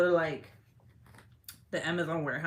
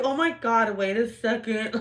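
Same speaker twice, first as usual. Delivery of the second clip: laughing alarm; 3 semitones higher, 5 dB louder than usual. Retold or imitated. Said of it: "I was like".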